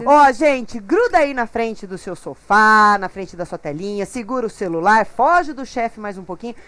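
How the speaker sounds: loud, slow-drawn host call to viewers; rally the audience to stay tuned; TV host announcement. Acted. TV host telling viewers to stay for the break, loud.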